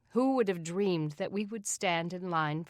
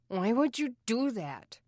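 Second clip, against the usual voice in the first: put-on boy voice; 6 semitones higher, 3 dB louder than usual. Aaron disbelieving.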